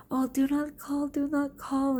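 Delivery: high, panicky mimicry of a crying girl; imitated tearful pleading. Frightened girl begging the teacher not to call, imitated crying. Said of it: "she's totally crying".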